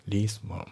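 least one said lees-one; no t at the end of least in least one; dropped t in least. Shown as a demonstration. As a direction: least one run together without the t. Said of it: "leastのTもね、抜けますね".

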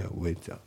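"with that" run together as "we-dat"; "with that" linked, first th left out; dropped TH. Shown as a demonstration. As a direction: say "with that" with one th, no gap. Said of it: "そのティーエイチが抜けますね".

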